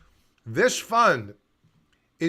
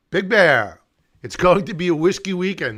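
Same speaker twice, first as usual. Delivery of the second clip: loud hearty greeting; calling out; 6 dB louder than usual. Real, not acted. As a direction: call out the name happily. Calls out to viewer.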